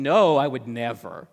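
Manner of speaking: a hammed-up Peter insisting he never would; drawn-out mock protest; emphatic denial.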